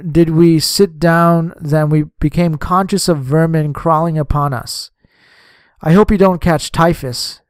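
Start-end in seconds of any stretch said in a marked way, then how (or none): none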